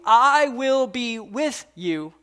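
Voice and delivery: slow, drawn-out reassurance; slow and gentle, the repeat softened; slow tender promise. Acted. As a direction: linger on each word to comfort.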